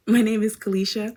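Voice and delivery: my in the name line said high and loud. Shown as a demonstration. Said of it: "what, what?".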